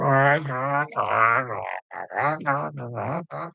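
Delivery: drawn-out wordless "ah-na-na" chant; mock worship chanting. Imitating someone worshiping somebody, mock chanting. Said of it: "worshiping somebody going".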